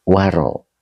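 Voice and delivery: "Waro" said clearly, the vowel after the w an open a; pronunciation answer. Shown as a demonstration. Teacher confirms the reading "Waro" for the student. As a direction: give the correct reading "Waro" to the student who asked. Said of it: "weri atau waro?".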